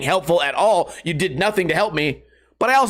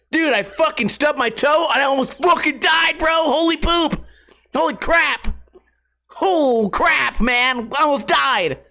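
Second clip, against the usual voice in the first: higher, shouted fake near-death panic; hammed-up clickbait yell; 9 semitones higher than usual. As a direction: overact like a drama vlogger. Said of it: "make every thumbnail say you almost died".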